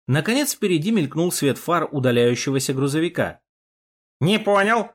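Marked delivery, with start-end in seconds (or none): 4.2-4.9 higher exclamation of puzzlement; возглас недоумения. A narrator's reading. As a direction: exclaim it, taken aback. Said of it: "воскликнул Яшка". (удивлённое восклицание)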